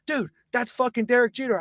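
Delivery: high-pitched starstruck outburst; hammed-up disbelief; mock amazement. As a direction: imitate a drunk friend's astonishment. Greg amazed by star.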